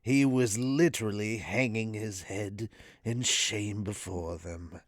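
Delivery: low, soft narration, sinking away; ASMR reverend. Acted. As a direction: read it hushed and reverent. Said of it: "the A S M R voice".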